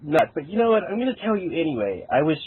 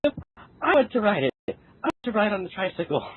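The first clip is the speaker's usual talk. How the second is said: lightly voiced whiny kid, a bit higher; childish whine; 5 semitones higher, faster than usual. Child pleading with daddy for a tricycle, mildly whiny. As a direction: beg like a little kid.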